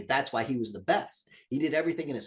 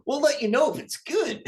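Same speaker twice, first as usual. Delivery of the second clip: laughing; 13 semitones higher, 4 dB louder than usual. Real, not acted. Laughing sign-off.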